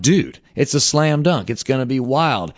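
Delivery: retelling his own eager pitch; hyped self-quote. Retold or imitated. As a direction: pitch it like a can't-miss idea. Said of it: "I'm like".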